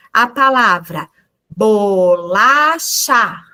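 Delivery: bolacha drawn out slowly; slow word demo. Shown as a demonstration. Teacher showing the word to children, slowly. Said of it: "mostra pras crianças".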